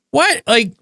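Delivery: high, sharp disbelieving what; incredulous. Real, not acted. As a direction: squeak of disbelief.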